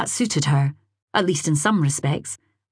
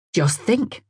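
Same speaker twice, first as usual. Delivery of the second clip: ordinary delivery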